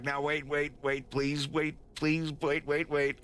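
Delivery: lightly acted begging; pleading. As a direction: plead for them to hold on. Acting Wolf pleading to wait.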